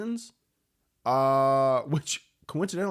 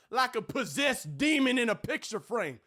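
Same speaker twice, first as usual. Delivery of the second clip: higher, sleazy drawling radio host voice; perverted Southern radio host; 8 semitones higher than usual. Acted. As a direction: schmooze the ladies like a creepy late-night DJ. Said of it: "my impression of a perverted Southern radio host".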